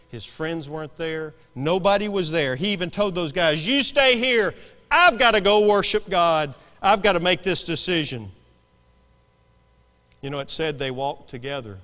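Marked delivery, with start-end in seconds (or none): 3.7-8.3 raised, forceful preacher's quote; emphatic quoted command. Acted. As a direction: declare it loud and resolute. Acted Abraham addressing his men.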